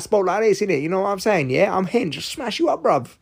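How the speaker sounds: high put-on London street accent; mock ultra-hard Jafaican street talk. Shown as a demonstration. Showing how hard twenty-somethings spoke, mock street accent. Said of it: "you were ultra hard".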